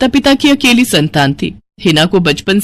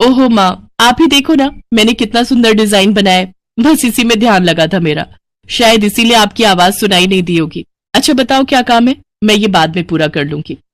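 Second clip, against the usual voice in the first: put-on pleading young daughter. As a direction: wheedle your cross mother, voice lifted. (मनुहार करती बेटी)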